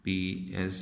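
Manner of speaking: ordinary delivery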